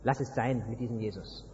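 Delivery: leise, tief und abwinkend gesprochen; gedämpft, wie ein halblauter Rat von der Seite; abratender Ratschlag. Acted. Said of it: "die sagen". (Leute raten dir leise und tief ab, zu Jesus zu gehen)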